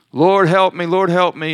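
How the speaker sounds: a loud plea for help; crying out. Retold or imitated. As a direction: call out desperately to the Lord. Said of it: "She's crying out".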